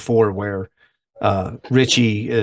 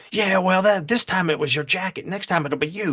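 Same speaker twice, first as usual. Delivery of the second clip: tough threat; 8 semitones higher than usual. Retold or imitated. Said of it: "he's like".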